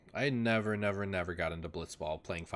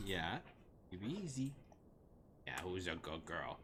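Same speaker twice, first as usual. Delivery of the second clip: soft pet talk; 10 dB quieter than usual. Real, not acted. Soothing dog while giving treat.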